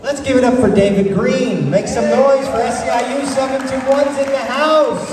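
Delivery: high, hyped crowd call; rally speech. Real, not acted. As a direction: pump up the crowd.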